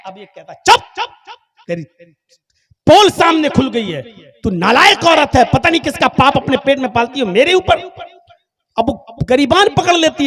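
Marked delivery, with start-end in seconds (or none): 0.5-7.8 triumphant shouting. Acted. Man gloating, shouting her down.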